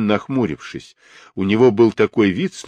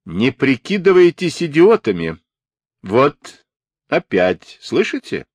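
irritated exclamation, pitched up at first; exclaiming; 5 semitones higher, 3 dB louder than usual. A narrator's reading. Stepfather accusing the children of playing dumb, exclaiming. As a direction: exclaim it impatiently at the pretenders. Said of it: "воскликнул мистер Ленуар".

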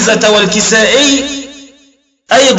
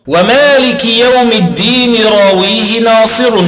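reciting the verse. Shown as a demonstration. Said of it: "قال الناظم".

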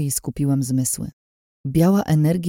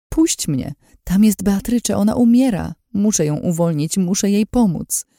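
raised, urgent plea; desperate pleading; 6 semitones higher, 3 dB louder than usual. A narrator's reading. Begging him to let her save Beatrycze, desperate pleading. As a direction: plead to be let go, pitch climbing. Struggling to reach dying friend.

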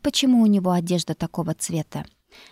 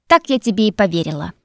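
scornful snort; 6 dB louder than usual. Acted. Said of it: "Мэгги презрительно фыркнула".

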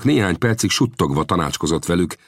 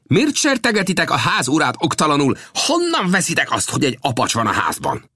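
high, raised challenge; called out; 11 semitones higher than usual. A narrator's reading. Old Death steps forward and calls out to the Comanches. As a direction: call out to the warriors. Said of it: "és ezt kiáltotta".

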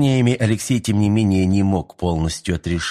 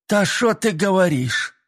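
put-on Odessa accent; 10 semitones higher, slower than usual. A narrator's reading. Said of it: "несколько даже утрировав одесский говор".

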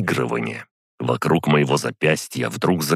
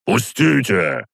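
high, drawn-out demand; struggling shout; 7 semitones higher, 4 dB louder, slower than usual. A narrator's reading. Old count wrenching against restraint, high drawn-out shout. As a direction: cry it out while straining free. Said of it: "крикнул он".

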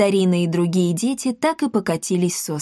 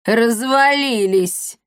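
окрик; 3 semitones higher, much slower than usual. Acted. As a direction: slowly bark it at the lazy kids. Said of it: "крикнула она". (протяжный громкий окрик)

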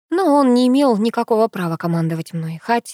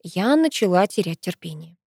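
usual speaking voice

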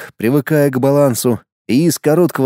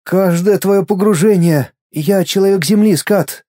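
put-on higher, brighter boy voice, glad; a boy cheering for his friend, pitched higher; boy's inner voice; 5 semitones higher than usual. Inner boy congratulating Skat, higher and happy. Мальчик объясняет.

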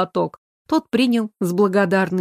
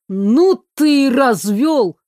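loud mock exclaim; 4 semitones higher, 4 dB louder, slower than usual. Friends arrive, mocking exclamation.

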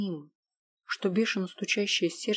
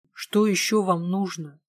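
louder, slow, furious shout; furious outcry; 6 dB louder, slower than usual. Acted. Stefa, furious, yells at Sofi, slow and loud. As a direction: throw the words out in a rage, slowly. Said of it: "выкрикнула она в бешенстве".

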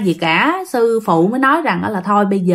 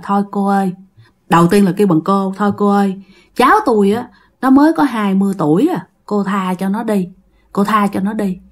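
gentle pleading. Acted. Grandfather begs the spirit to spare his grandson, subdued pleading. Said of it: "năn nỉ".

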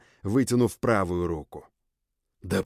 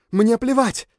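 defiant shout; 13 semitones higher, 7 dB louder than usual. Acted. Bella snaps back.

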